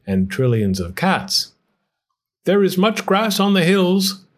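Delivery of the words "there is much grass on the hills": put-on old man's voice. A narrator's reading. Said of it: "said the very old man".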